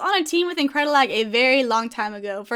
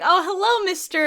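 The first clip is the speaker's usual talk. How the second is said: high, mock-polite hello; mock formal greeting; 6 semitones higher than usual. Greeting Bowser at the Soar House, mock formal. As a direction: greet him like a fancy gentleman.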